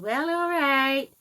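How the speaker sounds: loud, high, drawn-out mock huff; put-on offended mother voice; imitated mother. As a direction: mimic mom, stretching it out high and loud. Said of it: "And she just said".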